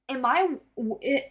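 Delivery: tripping over the words; stuttering. Real, not acted. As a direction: stammer and restart. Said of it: "I don't know why I'm stuttering".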